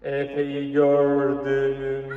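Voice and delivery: slow, teasing monster; playful monster voice. Pretend. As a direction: creep toward the child slowly. Playful monster game with child.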